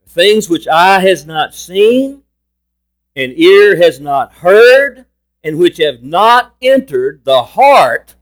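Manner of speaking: slow verse reading that lands hard on "heart"; measured phrases building to a weighted "heart"; stress on HEART. Real, not acted. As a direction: draw out and lean on the word "heart". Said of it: "I'm emphasizing the word heart".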